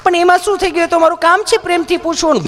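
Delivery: high syrupy nurse; sweet nurse. Retold or imitated. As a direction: coo it back sweetly. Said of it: "nurse reply".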